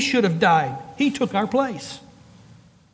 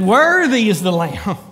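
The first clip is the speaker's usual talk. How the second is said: proclaimed loudly, leaning hard on Worthy; preacher's swelling cry of praise; 2 semitones lower than usual. Retold or imitated. Preacher voices heaven's worshippers around the throne, crying out. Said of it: "cried out in a loud voice".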